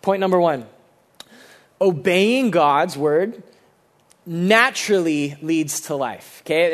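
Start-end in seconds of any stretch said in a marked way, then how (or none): 1.8-6.4 pause, then lean on "naturally"; stress on NATURALLY. Real, not acted. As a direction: set "naturally" apart and stress it. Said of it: "the emphasis is on the word naturally".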